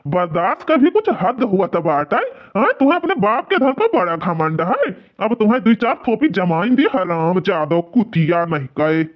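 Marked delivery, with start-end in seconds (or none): 2.8-6.9 raised voice, threatening a slap; angry threat. Acted. Son-in-law threatening the old man with slaps, angry. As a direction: bark out the threat.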